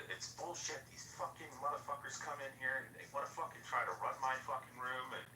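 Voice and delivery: ranting. Retold or imitated. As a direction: imitate someone going off on people. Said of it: "went off on Abby".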